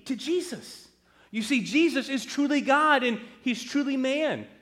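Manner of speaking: put-on high-pitched, zealous young convert; fervent declaration. Son defends his new faith to Mom and Dad, fervent. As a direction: declare it high and emphatic, full of conviction.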